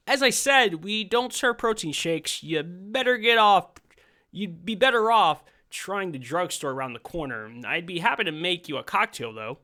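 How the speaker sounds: the barman says no, sweetly but firmly; prim bartender. Acted. Bartender refuses the customer.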